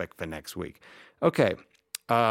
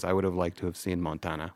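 softly quoted dying line; 3 semitones lower, 6 dB quieter than usual. Retold or imitated. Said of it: "he says".

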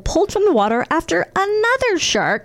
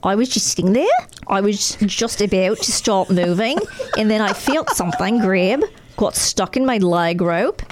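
put-on Australian accent. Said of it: "read this in an Australian accent".

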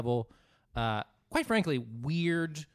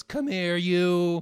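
barked, louder and higher; angry summons; 5 semitones higher, 7 dB louder, much slower than usual. Retold or imitated. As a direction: call the waiter over in a rage. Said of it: "when he goes".

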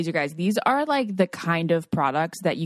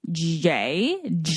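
spelling it out. Shown as a demonstration. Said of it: "let me spell it out for you".

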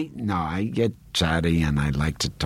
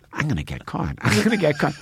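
mock guilty panic; 10 semitones higher, faster than usual. Actor reliving smuggling prosciutto, mock guilty panic. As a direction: build from murmured worry to high panic. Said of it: "I'm such a naturally guilty person".

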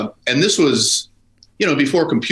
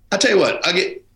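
put-on Southern accent; 6 semitones higher than usual. Mechanic haggling over a broken car, Southern accent. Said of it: "a Southern accent".

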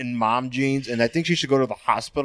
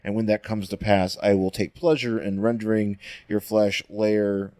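hissing; 4 semitones lower than usual. Retold or imitated. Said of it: "like a hissing".

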